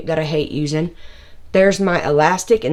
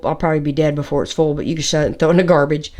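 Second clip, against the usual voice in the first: out of breath; 2 semitones lower, much faster than usual. Real, not acted. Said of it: "I'm running out of breath".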